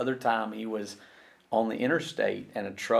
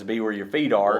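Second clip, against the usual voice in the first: quoting Travis; 7 dB louder than usual. Retold or imitated. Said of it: "as Travis says".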